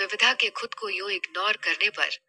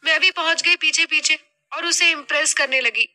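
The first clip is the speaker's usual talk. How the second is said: put-on higher, louder young-daughter role, animated complaint; शिकायत करती बेटी; 5 semitones higher, 4 dB louder than usual. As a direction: play the daughter spilling the whole story. (बेटी की ऊँची, शिकायती आवाज़)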